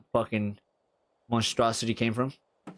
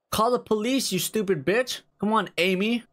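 frustrated yelling; 8 semitones higher than usual. Real, not acted. Gamer yelling at neighbor Amy, high exasperated. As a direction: snap at her to hurry.

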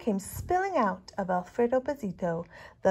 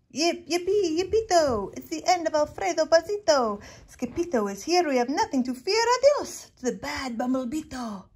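high, loud celebratory chant; gleeful cheer; 7 semitones higher, 6 dB louder than usual. A narrator's reading. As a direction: cheer the hero home. Crowd cheers victory.

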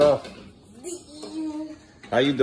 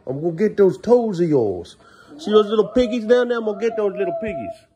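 playful monster voice; 11 semitones higher, 4 dB louder than usual. Acted. Dad teasing his child before tickling toes, playful high voice. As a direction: creep toward the toes playfully.

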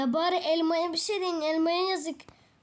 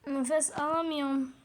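fake dying gasp. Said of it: "Onu yapacağım".

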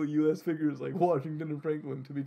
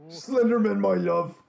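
loud, hammed-up romantic call; lovestruck monster; 4 semitones higher, 7 dB louder than usual. Aoni greets beloved Slenderman, lovestruck call. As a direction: cry out to your sweetheart.

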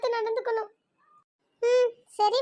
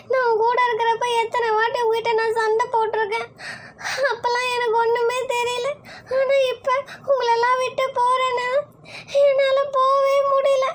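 tearful; 4 dB louder than usual. Acted. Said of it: "இப்ப எதுக்கு ரெண்டு பேரும் அழுதுட்டு இருக்கீங்க".

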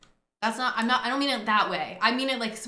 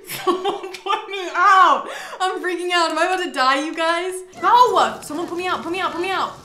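frantic high shrieks for help, much louder; panicked screaming; 7 semitones higher, 10 dB louder than usual. Real, not acted. Gamer yelling as her sim catches fire. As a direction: scream like you're burning alive.

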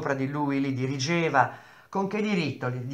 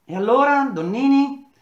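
much higher, louder pressing question; sharp demand; 11 semitones higher, 7 dB louder than usual. A narrator's reading. Engineer sharply demands an answer from Donnini. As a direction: snap the name out at him.

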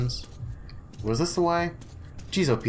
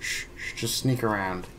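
whispering; 2 semitones lower, 6 dB quieter than usual. Real, not acted. Sneaking past guards.

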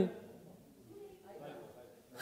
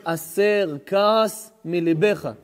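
slow verse quote; much slower than usual. Shown as a demonstration.

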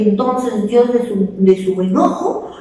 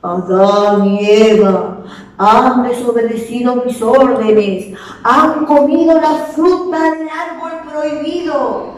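annoyed God; 3 semitones higher than usual. Acted. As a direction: pronounce the sentence with displeasure. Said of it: "con una voz molesta le dijo". (Dios molesto, voz lenta y severa)

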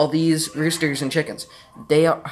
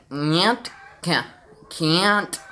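imitating playback; 2 semitones higher, much slower than usual. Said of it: "it was kinda like".

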